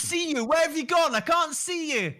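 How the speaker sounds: high, hammed-up blind superhero; jokey high-pitched parody of an actor; Charlie Cox's Daredevil. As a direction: call out in a comic put-on hero voice. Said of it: "do your best Charlie Cox doing Daredevil".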